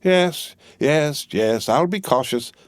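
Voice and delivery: brisk high-voiced Englishwoman; a bustling, bossy housekeeper; Miss Pross voice. A narrator's reading.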